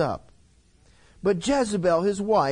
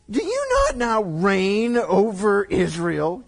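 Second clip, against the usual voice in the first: read queen's line; 3 dB louder, slower than usual. Acted. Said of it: "Jezebel, his wife, said to him".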